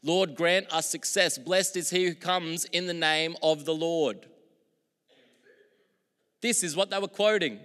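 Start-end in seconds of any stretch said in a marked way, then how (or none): 0.0-4.3 high, loud, slow psalm proclamation; preacher reading the psalm aloud; proclaiming the psalm. Acted. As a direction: declare the psalm out loud to the hall. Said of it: "Psalm a hundred and eighteen says".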